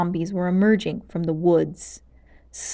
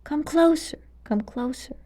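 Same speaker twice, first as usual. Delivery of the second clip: groaning; 7 semitones higher, 3 dB quieter than usual. Acted. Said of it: "Malgosia groaned".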